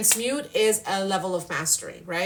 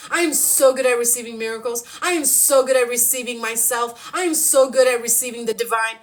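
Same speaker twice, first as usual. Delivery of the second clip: affirmations. Shown as a demonstration. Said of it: "Say it".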